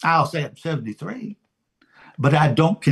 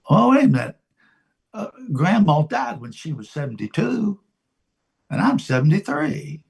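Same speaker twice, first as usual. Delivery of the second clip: sudden mock realization; 3 semitones higher, faster than usual. Preacher voicing someone counting grandma's age at death, mock realization. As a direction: act out a sudden worried second thought. Acting out an alarmed self-realization.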